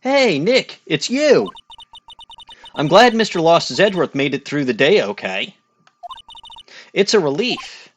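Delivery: high squeaky goblin voice for Maya. Acted. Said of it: "I can't do Goblin voice as well as Dawning".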